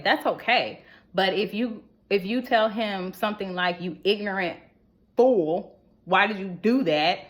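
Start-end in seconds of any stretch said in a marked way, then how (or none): 3.8-7.2 mock insult. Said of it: "Okay, that's not cool".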